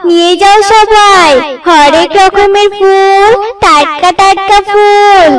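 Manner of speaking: slow, drawn-out hawker's cry; lightly voiced street vendor call; flower seller calling. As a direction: call your flowers out to the market. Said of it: "চিৎকার করতে থাকে".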